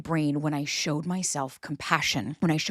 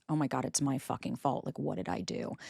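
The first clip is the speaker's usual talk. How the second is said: inner panic; 3 semitones lower, 7 dB quieter than usual. Retold or imitated. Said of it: "you then internalize".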